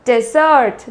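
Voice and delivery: डेजर्ट run together as one word, de-SERT; syllables joined. Shown as a demonstration. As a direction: join short de to sert in डेजर्ट. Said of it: "साथ में जब हम बोलते हैं तो".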